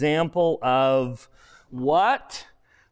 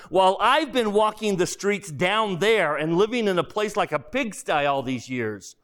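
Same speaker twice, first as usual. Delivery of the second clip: indignant big ghost; 3 semitones higher than usual. Acted. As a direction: throw the accusation back at him. Ghost accuses the murderer.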